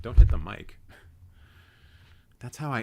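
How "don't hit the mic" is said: loud startled yelp; sudden shout. Real, not acted. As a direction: blurt it out as the cat strikes. Cat swipes the mic.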